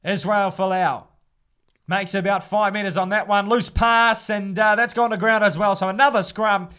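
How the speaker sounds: steady live match commentary; live rugby commentary read; rugby play-by-play. Acted. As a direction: call the rugby as it happens.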